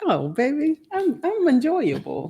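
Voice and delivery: high-pitched mock-sweet flirting; playful coy. Wife teasing husband after his compliment, playfully coy. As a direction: coo it high, teasingly self-satisfied.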